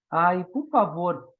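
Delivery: slow, drawn-out plea; mock pleading to a friend. Friend begging another friend to explain the lecture, slow plea. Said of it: "Ele fala assim".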